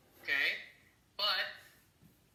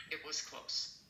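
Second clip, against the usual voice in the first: "It was close" breathed out as a whisper, no voice; whispered emphasis; 4 dB quieter, slower than usual. Shown as a demonstration. Teacher demonstrating emphasis to students, whispered. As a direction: whisper "close" as if it nearly happened. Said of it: "add the proper emphasis".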